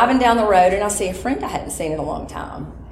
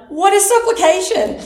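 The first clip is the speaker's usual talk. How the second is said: puzzled question; 13 semitones higher, 5 dB louder than usual. Retold or imitated. Confused question to mentor.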